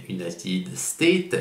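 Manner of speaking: slowed English words with a Spanish accent; French speaker's English, sounding rather Spanish; Spanish-tinged English accent. Real, not acted. Reviewer attempts an English name for the army, Spanish-tinged accent. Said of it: "pardonnez mon accent anglais".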